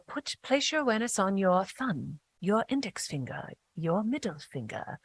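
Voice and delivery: put-on soft guided-meditation voice in a British accent. Host quotes a Yoga Nidra guide in a British accent. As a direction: imitate a British yoga teacher, gently and quietly. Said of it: "shout out to your British accent".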